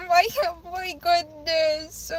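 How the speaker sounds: slow, choked-up and moved; overwhelmed, voice catching on the words; close to tears. Real, not acted. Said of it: "I wanna cry".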